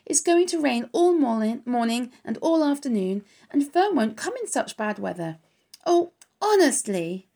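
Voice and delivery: a lonely pig breaking into tears; crying. Acted. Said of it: "And Wilbur was crying again".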